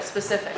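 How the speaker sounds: "specific" said carefully to be copied; "specific" as a clean, separate pronunciation model. Shown as a demonstration. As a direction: model the word "specific" for a learner to repeat. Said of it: "repeat after me".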